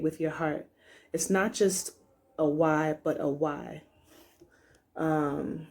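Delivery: measured, deliberate read-aloud; card reading aloud. Acted. Reader sharing a card's guidance with viewers, measured read-aloud. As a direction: read it out clearly, letting each phrase land.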